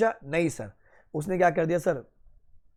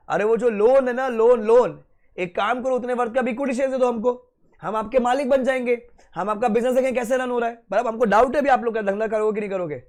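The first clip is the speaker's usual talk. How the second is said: louder, higher, pushy lender voice; demanding bank officer; 4 semitones higher, 4 dB louder than usual. Acted. Teacher voicing the bank demanding equity from the borrower. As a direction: lean in and demand the shares.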